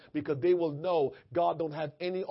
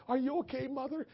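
concerned; 8 semitones higher than usual. Retold or imitated. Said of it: "I'm all worried".

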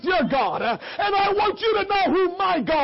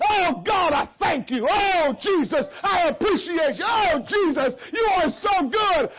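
loud praise. Shown as a demonstration. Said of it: "we gonna say".

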